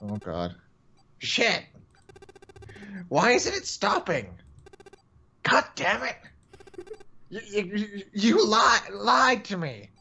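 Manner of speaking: frantic, panicked yelling; panicked shout. Acted. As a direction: scream it in terror through the door. Ninth man panicking behind door.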